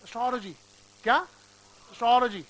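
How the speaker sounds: एस्ट्रोलॉजी said as स्टॉलॉजी, no ए; dropped A. Shown as a demonstration. Teacher showing the right way with no first vowel. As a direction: skip the ए, start on स्ट. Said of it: "ए बोले ही मत".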